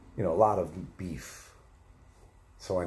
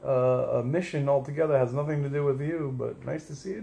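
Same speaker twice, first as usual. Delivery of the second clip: high, loud, hammed-up reply; over-bright polite small talk, pitched high; retold greeting; 10 semitones higher, 5 dB louder than usual. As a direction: re-enact an awkward hello in a raised voice. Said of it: "I was like".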